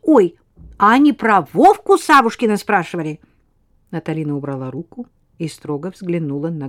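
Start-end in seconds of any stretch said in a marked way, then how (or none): 0.0-3.2 put-on high, bright, rapid girl's chatter; chatty little girl. Lena again.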